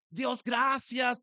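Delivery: joyful shout of thanks. Retold or imitated. Celebrating at home, thanking God.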